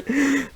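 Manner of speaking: high-pitched giggle; gleeful laugh. Real, not acted. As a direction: burst of pleased laughter. Amused at the easy purchase.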